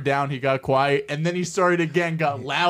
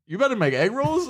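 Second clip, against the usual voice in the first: much higher baffled mock voice; clueless friend; 10 semitones higher than usual. Retelling Riv asking the chef, high mock voice. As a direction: play up his cluelessness. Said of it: "and Riv goes".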